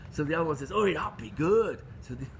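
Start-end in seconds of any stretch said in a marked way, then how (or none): 0.7-1.8 put-on slow southern English accent, mildly pleased; second farmer in the pub, southern English. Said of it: "switch now to a southern, uh, uh, English accent".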